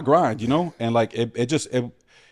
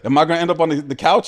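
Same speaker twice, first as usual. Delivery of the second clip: mock suspicion; 6 semitones higher, 6 dB louder than usual. Joking about hotel audition.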